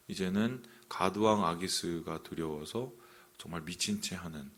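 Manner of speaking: ordinary delivery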